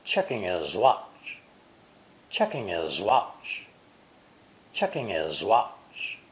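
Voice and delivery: "Checking his watch" slow, words joined, H of "his" silent; linked and slow. Shown as a demonstration. Teacher slowly showing the linked phrase. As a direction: glide "checking his watch" as one unit. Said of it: "all three words ... are linked together".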